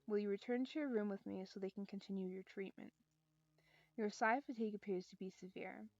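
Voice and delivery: calm storytelling read; story narration. Acted. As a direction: read the novel aloud evenly. Reads visual novel aloud.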